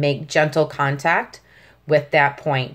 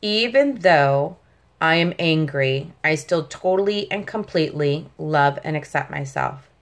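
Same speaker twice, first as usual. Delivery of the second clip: calm affirmation. Shown as a demonstration. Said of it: "One more time".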